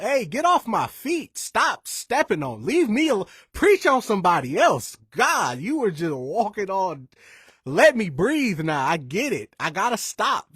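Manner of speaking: put-on half-hearted shout of a kid telling mom to stop; retold holler. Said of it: "I just hollered".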